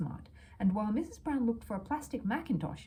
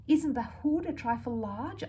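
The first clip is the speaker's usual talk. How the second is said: anxious; 7 semitones higher, 3 dB louder, slower than usual. A narrator's reading. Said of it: "asked Missus Brown anxiously".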